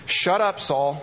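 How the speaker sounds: high, loud stern rebuke; stern shout. Retold or imitated. Prophet rebuking the king, a loud stern shout. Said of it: "stark, stern words".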